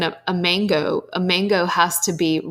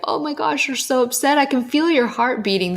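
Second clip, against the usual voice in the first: higher, gentle comforting voice; retold soothing tone for an upset child; soothing a toddler; 6 semitones higher than usual. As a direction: coo to a crying two-year-old.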